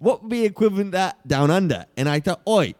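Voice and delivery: broad mock Aussie pitchman; Australian accent. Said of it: "I'm from Australia".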